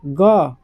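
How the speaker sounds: ग said alone, low and firm; voiced letter ग. Shown as a demonstration. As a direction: give a deep voiced ग. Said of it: "इसमें सबसे बोला होगा ग".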